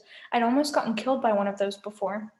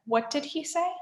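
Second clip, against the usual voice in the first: half-asleep groan, pitched up; Tyson; 4 semitones higher than usual. A narrator's reading. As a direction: mumble it as if just woken. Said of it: "Tyson groaned, still half asleep".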